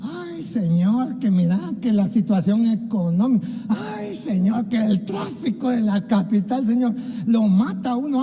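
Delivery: mock-whine each grievance, lightly; complaining sighs. Preacher imitating people's complaints to God, mildly whiny. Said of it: "Y empiezan a quejarse".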